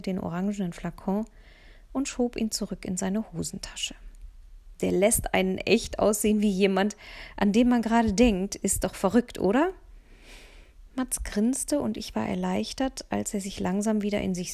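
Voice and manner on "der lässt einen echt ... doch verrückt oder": lightly voiced cheeky boy, louder; laughing friend egging her on; teasing boy. Mats teasing his friend about the funny scent, lightly voiced boy.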